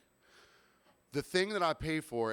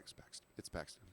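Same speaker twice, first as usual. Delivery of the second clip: much softer, almost inaudible name; barely audible; 9 semitones lower, 18 dB quieter than usual. Retold or imitated. Bartender to customers asking his name, barely audible. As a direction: mumble your name so nobody hears. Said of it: "I do the exact opposite".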